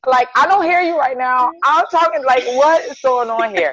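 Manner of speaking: starstruck excitement. Retold or imitated. Retelling meeting her idol, starstruck.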